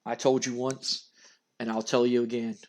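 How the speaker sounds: a hint of a sinister undead threat; menacing Undertaker. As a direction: Undertaker choking Vince, low ominous threat. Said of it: "and he goes".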